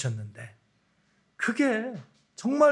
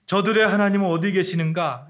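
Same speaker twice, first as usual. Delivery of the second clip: scornful taunt with a heavy falling end; mocking question; 2 semitones higher, 5 dB louder than usual. Nations jeering at Israel, scornful and louder. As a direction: sneer it at the captives. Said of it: "이렇게 그 사람들이 조롱했습니다".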